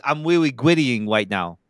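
put-on slow lisping baby talk, gwittying with a w; cutesy baby voice. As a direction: say gwittying like a toddler. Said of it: "I had to say it in a baby voice".

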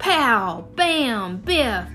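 punchy comic-book sound effects; excited punch sounds. Acted. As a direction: bark out each punch noise. Theo acts out punches.

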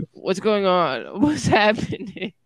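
slow, drawn-out mock confusion; lightly acted sleepy bewilderment, stretched out; groggy waking up. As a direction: imitate someone slowly waking up puzzled. Imitates Caleb waking under the pile.

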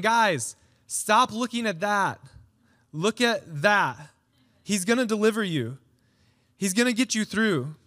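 rally a scared crowd to look up; urging. Acted. Moses urging the frightened people.

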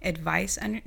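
rough, strained throat; hoarse voice. Real, not acted. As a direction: talk through a hoarse throat. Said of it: "damn, my voice".

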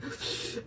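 a soft, breathy push of air like straining at a rep; effort exhale. Shown as a demonstration. Showing friends the noise she makes mid-rep, a strained exhale. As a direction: breathe out hard as if pushing through a lift. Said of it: "I close my eyes and I go like".

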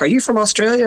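puzzled shop owner. Retold or imitated. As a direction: lightly play a puzzled Italian shopkeeper. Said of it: "multiple shop owners were like".

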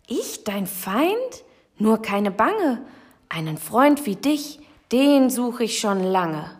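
lightly voiced high mouse, gently reassuring; squeaking mouse. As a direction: squeak it kindly to the lion. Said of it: "Das Mäuschen fiebte". (leicht gespielte piepsige Mausstimme)

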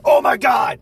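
high loud gasp of oh my God; shrieked oh my God; mock shock. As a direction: throw your voice up in fake horror. Kid screams mid vowel song.

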